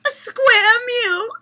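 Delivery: put-on slow, high, loud Irish-accent repeat, cracking up. Laughing repeat of her own punchline in a mock Irish accent. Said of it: "doing it in an Irish accent".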